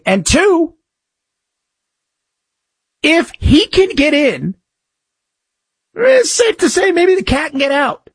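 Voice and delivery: mock-obvious sarcastic tone; sardonic. Real, not acted. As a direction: land the joke with dry irony. Joking about escaping zoo cat.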